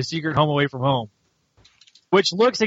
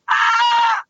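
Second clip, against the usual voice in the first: high short hammed-up yell; mock scream; 4 dB louder than usual. Host voicing a character screaming in a burning building. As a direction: let out a high cartoon scream.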